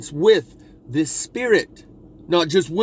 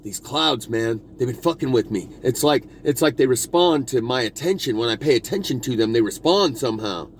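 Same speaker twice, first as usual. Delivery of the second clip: lowered voice of a friend; 5 semitones lower than usual. Retold or imitated. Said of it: "And he says".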